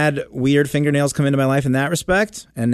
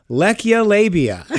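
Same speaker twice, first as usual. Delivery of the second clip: laughing; 6 semitones higher, slower than usual. Real, not acted. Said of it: "How could I".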